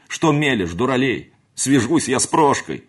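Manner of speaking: loud, high, angry tirade; furious scolding. A narrator's reading. Housekeeper berating the servant, furious and loud. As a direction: tear into him with rising fury.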